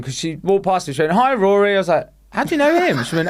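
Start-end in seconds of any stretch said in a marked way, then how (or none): 1.1-1.8 higher, louder call to a friend; mimicked excited greeting; cheery greeting. Child greets boy while passing. 2.3-3.0 high-pitched, incredulous retold question; acted-out astonishment, pitch leaping up; surprised question. Retells own startled question to child.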